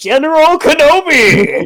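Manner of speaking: very high-pitched raspy voice. Saying the line after another player refuses to: raspy General Grievous voice. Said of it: "speaking a raspy voice now".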